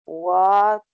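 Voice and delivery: rising, puzzled "What? Me?"; surprised question. Acted. Student reading, surprised what me. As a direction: ask it with real surprise. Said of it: "a entonação".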